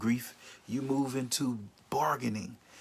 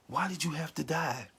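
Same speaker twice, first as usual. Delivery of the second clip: mildly upset, higher-pitched plea; acted hurt, pitched up; upset questioning; 4 semitones higher than usual. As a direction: ask as a grieving person upset with the one who died. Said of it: "upset with the person".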